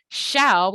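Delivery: "Shall" said on its own with the L held; drawn-out sound. Shown as a demonstration. Teacher breaking down the line's sounds, isolated "Shall". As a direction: linger on the end of "Shall". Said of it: "we have that long ow".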